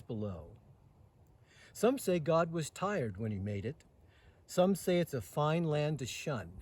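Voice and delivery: measured, rhythmic reading of a ballad poem; poem recitation. Acted. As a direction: give each rhyming line its swing and pause. Recites a Robert Service poem.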